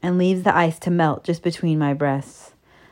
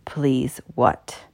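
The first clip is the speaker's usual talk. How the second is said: lower, softer voice for the man; dominant lover; 5 semitones lower, 4 dB quieter than usual. A narrator's reading. Narrator voices man questioning from across room, commanding. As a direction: answer low and controlled.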